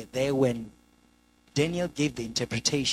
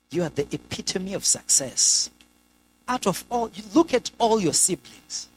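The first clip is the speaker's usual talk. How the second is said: swelling, louder self-praise; boastful king; 5 semitones higher, 4 dB louder than usual. Acted. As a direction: build into proud admiration of yourself. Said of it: "while he's on this monologue by himself".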